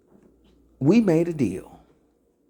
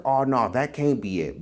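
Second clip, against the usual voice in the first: mock denial. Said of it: "when I'm coming to give you the answer".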